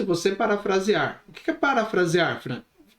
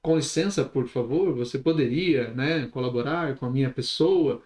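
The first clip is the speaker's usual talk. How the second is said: lower, formal, overly polite voice; overly polite request; 5 semitones lower than usual. Retold or imitated. Speaker showing a too-formal approach to a street guy, overly polite. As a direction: play the stiff, too-formal stranger. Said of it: "Se você chegar falando".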